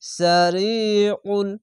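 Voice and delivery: slow recitation of "সারিউল", long ee after r; one-alif stretch. Shown as a demonstration. Teacher reciting the example, "রি" held long. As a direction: draw out the "রি" in "সারিউল". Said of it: "এক আলিফ টেনে পড়বেন".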